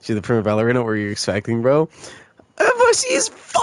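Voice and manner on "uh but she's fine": screamed rebuttal. Real, not acted. Streamer defending the ballerina to chat, long high scream. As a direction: scream it, stretching "fine" out long.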